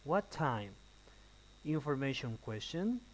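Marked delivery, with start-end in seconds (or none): 0.0-0.7 "What time" with pitch dropping at the end; falling intonation. Shown as a demonstration. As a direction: let "time" fall. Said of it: "falling intonation".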